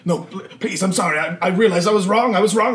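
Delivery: high, panicky begging; acted crying, frightened cultist; tearful pleading. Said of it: "is just, like, crying".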